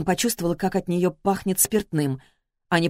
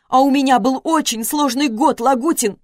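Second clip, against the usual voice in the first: higher and louder, on the edge of sobbing; distraught ex-wife shouting at Lagutin; anguished shout; 6 semitones higher, 5 dB louder than usual. A narrator's reading. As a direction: cry out her pain, slowing on the drama. Wife shouting before bursting into tears.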